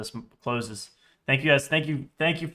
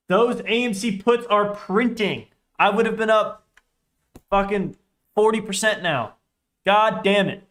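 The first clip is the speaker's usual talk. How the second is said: rapid hyped trader panic; 6 semitones higher than usual. Real, not acted. Missed profits on puts.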